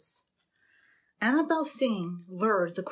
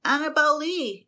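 soft cracking caw; 8 semitones higher, 5 dB louder than usual. A narrator's reading. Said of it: "it cawed in a soft, cracking voice".

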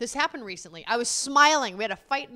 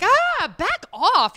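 loud, higher, slow push-back; mock back off; 10 semitones higher, 10 dB louder, much slower than usual. Wife retelling brushing husband off, loud and slow. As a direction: stretch out the brush-off. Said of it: "And I'm like".

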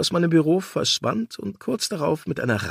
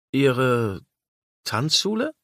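stunned echo; slower than usual. Acted.

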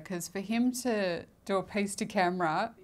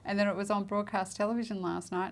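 usual speaking voice

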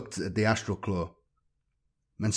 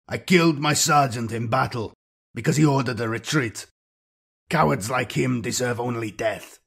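choked out; 3 semitones higher, 3 dB louder than usual. A narrator's reading. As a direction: push the words out past a tight throat. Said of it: "he choked out".

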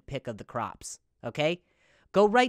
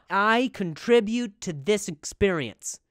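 slow, louder, solemn proud-husband voice; earnest dutiful man; 4 dB louder, slower than usual. Retold or imitated. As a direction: announce your duty like a dependable man. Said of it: "And they, and they talk like that".

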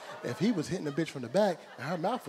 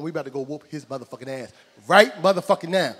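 loud, building rallying shout; fired-up battle cry; 14 dB louder than usual. Acted. Uncle rallying the boy to go whoop a bully, fired-up shout. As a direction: yell it like you're leading a charge. Voicing a fired-up relative ready to fight.

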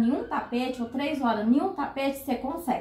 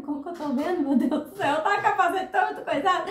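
high, laughing mock excuse; hurried, higher-pitched comic protest; 4 semitones higher, faster than usual. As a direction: retell your flustered plea through laughter. Acted flustered reply to examiner.

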